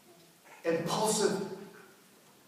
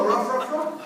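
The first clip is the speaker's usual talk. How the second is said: imitated barking dog; 2 semitones higher than usual. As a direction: bark it out at the audience. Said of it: "It's like that dog".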